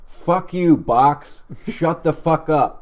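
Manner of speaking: high, loud angry heckle; imitating a furious homeless man yelling. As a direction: scream at the talking box. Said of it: "and begin yelling".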